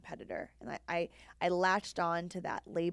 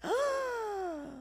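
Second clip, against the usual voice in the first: shocked refusal. Retold or imitated. Retold refusal to coach's advice.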